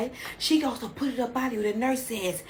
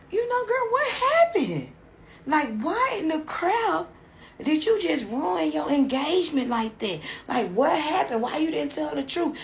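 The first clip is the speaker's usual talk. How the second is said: very high, louder, laughing squeal; squealing disbelief; 6 semitones higher, 3 dB louder than usual. Acted. Doctor squealing at the bride over the ruined engagement. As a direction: shriek it in gossipy shock.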